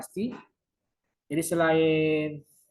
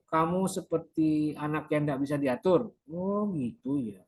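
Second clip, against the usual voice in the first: counselor summing up. Shown as a demonstration. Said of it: "seorang konselor buat kesimpulan".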